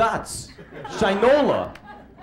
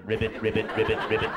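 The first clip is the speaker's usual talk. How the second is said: soft, low ribbit croaks; frog croaking; 3 semitones lower, 3 dB quieter, much faster than usual. Pretend. The first amphibian croaking, soft and low. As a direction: croak quietly like a little frog.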